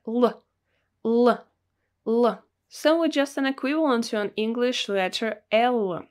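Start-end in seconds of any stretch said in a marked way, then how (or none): 0.1-0.4 "L" as a bare consonant sound, luh; letter's sound. Shown as a demonstration. Teacher shows how the letter is pronounced, "L" as a short luh. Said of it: "it's pronounced like". 1.0-2.4 "L" as a short isolated luh, repeated; letter's sound. Shown as a demonstration. Teacher repeats the sound for learners, "L" as a short luh. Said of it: "it's pronounced like".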